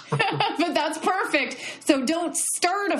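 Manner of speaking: laughing through the words, high and slow; delighted laughing praise. Real, not acted. Host laughing at the story.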